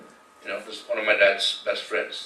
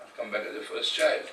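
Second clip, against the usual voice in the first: hushed, emotional, close to tears; real grief, voice falling quiet; getting emotional; 7 dB quieter than usual. Real, not acted. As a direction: softly overcome remembering his dying mother. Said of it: "sorry, I'm getting emotional here".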